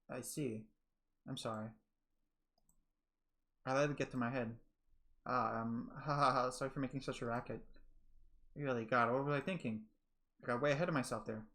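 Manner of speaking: hide the hurt with a nervous laugh; hurt heroine. Acted. Voices the heroine Giselle.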